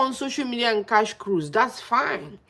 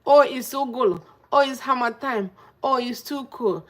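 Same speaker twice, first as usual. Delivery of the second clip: higher-pitched imitation of complainers; mock complaining; 4 semitones higher than usual. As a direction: mimic people moaning about the cold. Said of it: "now people are complaining".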